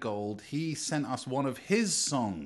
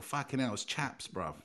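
mock cold complaint; 4 dB quieter than usual. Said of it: "You go".

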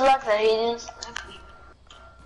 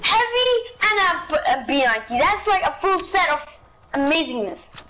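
high, amazed listing; excited gamer; 4 semitones higher than usual. Real, not acted. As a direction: rave about the gear. Listing enemy's loot.

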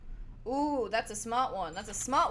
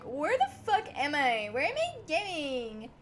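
imitating himself lost; 3 semitones higher than usual. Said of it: "me being like".

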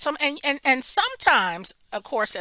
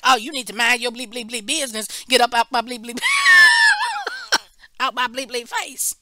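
defensive cussing; 2 semitones higher, 9 dB louder, faster than usual. Retold or imitated. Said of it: "some people that have been like".

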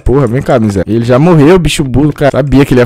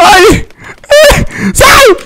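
shrieks; much slower than usual. Real, not acted. Streamer grabbed in game, shrieking in panic. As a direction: squeal in real fright. Caught in horror game, screaming.

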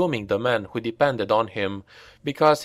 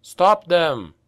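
higher, louder call to the men; 6 semitones higher, 5 dB louder than usual. A narrator's reading. Reiner calling to his men, louder. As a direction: shout across to them. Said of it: "he called to the others".

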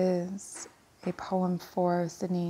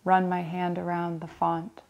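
even verse reading broken into short phrases; poem recitation. Acted. Reader reciting a poem about visiting a church, poem recitation. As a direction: set out each image with a small pause. Reads a Larkin poem aloud.

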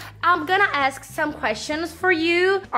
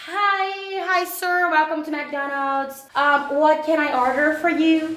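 mock fast-food cashier; 3 semitones higher, slower than usual. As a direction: play a polite counter clerk taking an order. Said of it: "let's pretend we are on McDonald's". (atendente de fast-food fingida, voz mais aguda)

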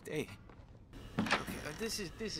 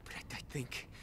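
sheepish whisper; 6 dB quieter, faster than usual. Real, not acted. Apologizes to Mama after swearing.

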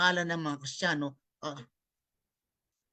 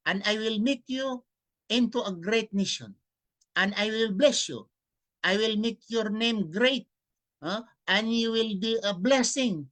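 scripture reading; 3 dB louder than usual. Acted. Preacher reading the Bible verse aloud to listeners, solemn declaiming.

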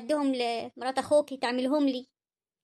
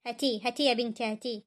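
defeated murmur; 4 semitones lower, 4 dB quieter than usual. Acted. Mother gives in, defeated.

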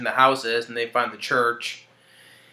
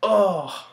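a short, higher grossed-out oh; mock queasy oh; imitated wince; 6 semitones higher than usual. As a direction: groan like you can't bear to look. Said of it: "he goes like this".

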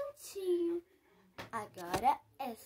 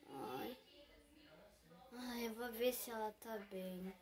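whispering over a crib; 3 semitones lower, 12 dB quieter than usual. Acted. Checking on sleeping baby.

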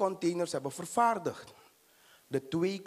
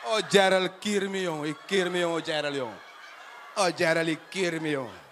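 mock lament; 3 semitones lower, 4 dB louder than usual.

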